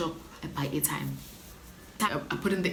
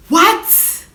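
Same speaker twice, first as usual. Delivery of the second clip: much higher, incredulous what; stunned disbelief; 12 semitones higher, 7 dB louder than usual. Real, not acted. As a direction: squeak it out in disbelief. Disbelief that he is alive.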